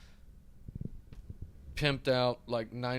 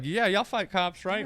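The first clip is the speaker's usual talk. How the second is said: gangster voice; 9 semitones higher, 4 dB louder, slower than usual. Retold or imitated. Gangsters quoted.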